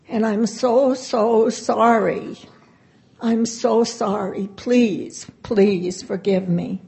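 slow, heartfelt plea for forgiveness; tearful apology. Retold or imitated. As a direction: stretch out each sorry as if holding back tears. Mother apologizing to daughter.

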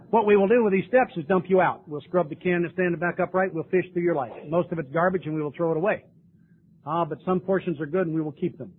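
a touch of a persuasive sponsor; sponsor's voice. Retold or imitated. Sponsor explaining the twelve steps, lightly voiced and eager. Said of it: "And he said".

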